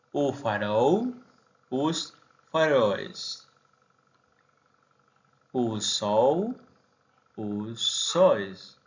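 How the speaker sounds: "faróis" y "sóis" con o abierta y diptongo "ois"; "os sóis" dicho "us sóis", lento; pronunciación portuguesa. Shown as a demonstration. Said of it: "termine con ol". (plural portugués en "óis")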